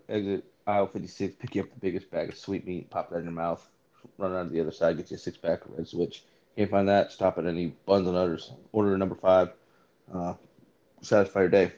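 lightly hammed sponsor spot; quick fake commercial read; mock ad read. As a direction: run the fake commercial again.

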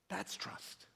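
That's trust. breathed softly, almost whispered, with the stress on That's; hushed refrain. Acted. Preacher softly sealing the point to his listeners, whispered. Refrain after loud quote.

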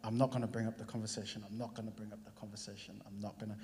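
quiet inner mantra repeated. Retold or imitated. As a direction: repeat it to yourself under your breath. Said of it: "in my head".

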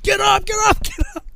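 loud, high wake-up yell; drill sergeant shouting. Retold or imitated. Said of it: "Drill sergeant threw a garbage can".

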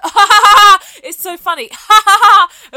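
very high, loud fake cackling; mock scream laugh. Girl playing a video on the tube, imitated scream laughing. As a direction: imitate someone screeching with laughter at a clip. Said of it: "like, scream laugh".

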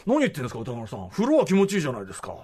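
mock loud objection from a producer; imitated loud protest. Host quoting his ex-producer's objection to the heat, mock loud protest. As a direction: raise your voice, quoting someone's indignant objection. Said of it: "みたいな大声言われて".

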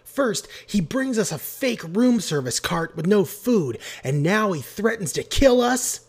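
high, loud outraged complaint; indignant rant. A narrator's reading. Marcy Marcy accusing Creed to her friends, indignant. Marcy Marcy keeps ranting after shouting.

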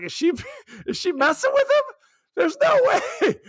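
hammed-up high "no way"; mock disbelief. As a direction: squeak out your disbelief at the nun's line. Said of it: "and I was like".

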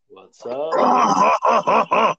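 choking mid greeting; words forced out while choking; swallowed wrong way. Real, not acted. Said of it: "That goddamn crown went down the wrong pipe".

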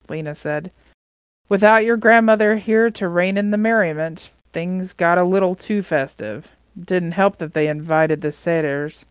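story narration. Acted. Reader voicing Lena's explanation of the mess, story narration. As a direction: clear read-aloud with lifted dialogue. Reads the book aloud.

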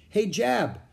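high-pitched friendly shout-out, not full force; calling out. A narrator's reading. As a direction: call over to another kid. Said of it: "he called out".

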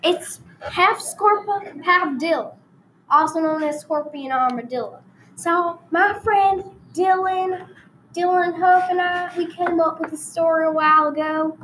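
hammed-up rural Texas storyteller; country Texan accent, played for laughs; put-on Texan accent. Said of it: "I'm gonna change accents for a while".

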